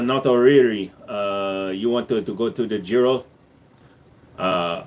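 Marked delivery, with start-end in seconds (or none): 1.7-3.2 half-hearted attempt at a Korean accent. Shown as a demonstration. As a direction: try a mild mock Korean accent, lower in pitch. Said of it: "Can you do a Korean accent?".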